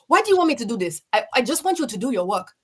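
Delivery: put-on lightly done African accent. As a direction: coax the pupils in a gentle African accent. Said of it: "read to them in an African accent".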